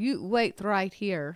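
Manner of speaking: put-on slight Russian accent. Retelling authorities who read his words telling him to wait, in a russian accent. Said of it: "in their little Russian accent".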